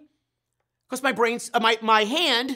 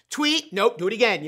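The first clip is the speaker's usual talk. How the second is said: mild coach yell. Retold or imitated. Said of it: "yells the coach".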